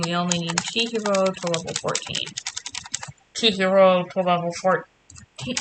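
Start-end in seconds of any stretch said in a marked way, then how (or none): 3.3-5.6 talking into hand. Shown as a demonstration. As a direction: fake intercom through cupped hand. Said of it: "I tried to talk into my hand and make it sound like an intercom".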